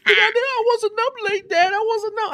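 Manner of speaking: high, slow whining plea with a laugh; hammed-up kid pleading; mock whiny daughter. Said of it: "She was crying".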